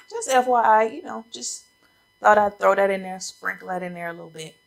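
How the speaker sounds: slightly out of breath; talking short of breath. Real, not acted. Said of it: "I don't know why I'm out of breath today".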